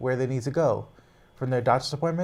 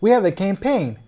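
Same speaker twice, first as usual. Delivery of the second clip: loud rally voice; 6 semitones higher, 8 dB louder than usual. Real, not acted.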